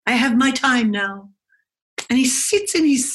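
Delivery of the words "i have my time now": higher, fast mock dad voice declaring his rules; mock dad brushing off his kids; mocking self-important dad. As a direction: send up the dad who won't talk. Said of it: "I say to my children".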